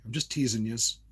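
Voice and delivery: lightly done Jersey phrasing; Jersey accent. Shown as a demonstration. Showing what Jersey people say, light Jersey accent. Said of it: "That's what we say in Jersey".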